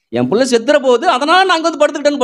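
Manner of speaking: Hagar's despair. Retold or imitated. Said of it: "சொல்லல".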